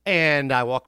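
normal talking voice

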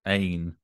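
"Ain" said as a long AIN; full-vowel pronunciation. Shown as a demonstration. Puzzling over the spelling, demonstrated pronunciation. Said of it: "why the A I N in that is pronounced".

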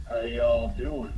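put-on slow, low drunken greeting; drunk guy. A drunk stumbling up to strangers at the bar, slurred and slow. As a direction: draw it out like a lazy drunk. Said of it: "this drunk guy stumbles in".

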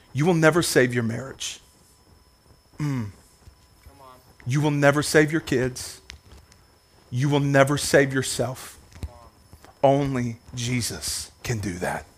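low, soft, intense; quiet sermon intensity; hushed preaching. Acted. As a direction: lean in and say it quietly.

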